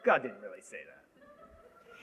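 soft, slow, low dismissive hiss of a serpent; lightly voiced sly serpent, hushed and slow; sneering snake leaning in. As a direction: lean in and scoff like a tempting snake. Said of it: "the snake leans in".

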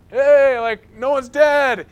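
David shouting out in giddy relief that nobody died; relieved excited shout. Retold or imitated. David relieved carrying the ark.

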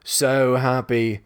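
slow, flat insincere "So happy". Acted. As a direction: drag out "So happy" without meaning it. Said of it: "somewhat less genuinely".

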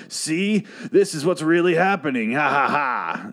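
high, condescending explaining voice with a fake laugh; mock explainer voice. Mocking the show spelling out the twist, condescending explainer. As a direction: spell it out like to a child, then a hollow ha ha. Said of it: "this is the equivalent of them going".

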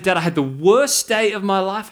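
a little girl telling dad of the worst day, mock-tragic; dramatic. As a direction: ham up the daughter's tragic complaint. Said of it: "She's a little bit dramatic".

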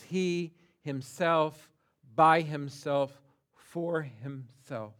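slow with weight on "himself", "by" and "for"; preacher stressing the emphatic word. Shown as a demonstration. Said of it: "Peter uses the emphatic word".

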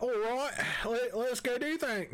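put-on drifting Cockney-to-Australian accent. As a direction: start Cockney, end up Australian. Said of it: "You started out Cockney and ended up Australian".

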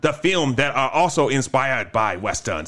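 slow dramatic announcer voice; trailer announcer. Acted. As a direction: build it up like a movie trailer.

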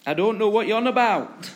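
loud, high-pitched acted protest; forceful brush-off; indignant denial. Acting Peter's escalating denial.

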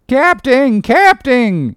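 high, loud panicked holler; bumpkin's yell. A narrator's reading. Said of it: "yelled the bumpkin".

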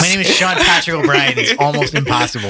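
high, loud hammed-up Irish; Irish accent. Reader giving up on sounding British, hammed-up Irish accent. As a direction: play up a comic Irish brogue. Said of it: "I can't not be Irish".

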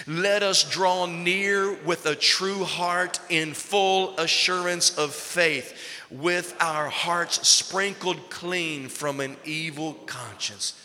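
slow, weighty reading of the verse; slow scripture reading. Acted. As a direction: lean on every word, slowly.

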